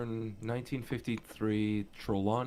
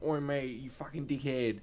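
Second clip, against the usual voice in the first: put-on chav English accent; 5 dB quieter than usual. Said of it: "the chav English accent was like".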